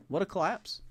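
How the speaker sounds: incredulous repeat, rising. Real, not acted.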